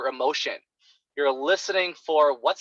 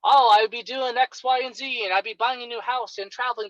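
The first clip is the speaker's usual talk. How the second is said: eager client; 7 semitones higher than usual. Retold or imitated. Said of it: "They'll tell you everything".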